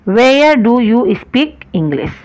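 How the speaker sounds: very slow, word-by-word English sentence; slow dictation. Shown as a demonstration. Teacher to class, dictating the question word by word, very slow. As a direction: spell it out slowly for students. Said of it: "teacher dictating sentence".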